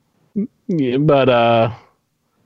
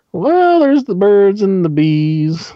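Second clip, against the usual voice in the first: awkward dad; 9 semitones higher, 3 dB louder, slower than usual. Pretend. Dad answers kid's awkward question.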